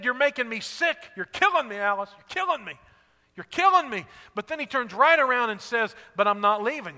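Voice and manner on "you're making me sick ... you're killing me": exasperated complaint. Retold or imitated. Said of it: "he's just said".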